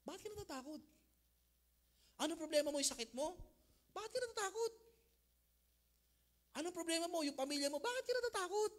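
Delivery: Lord questioning. Acted. Preacher voicing the Lord asking.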